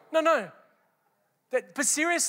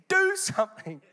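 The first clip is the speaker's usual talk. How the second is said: high, punchy coach command; football coach; 7 semitones higher than usual. Retold or imitated. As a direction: bark it like a coach. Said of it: "I love the football coach".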